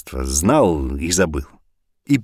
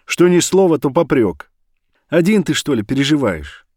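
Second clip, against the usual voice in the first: reproachful; 7 semitones higher than usual. Acted. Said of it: "выговаривала жена".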